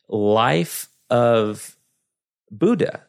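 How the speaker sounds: Texan drawl on Buddha; West Texas drawl. Real, not acted. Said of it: "which I say that like such a Texan".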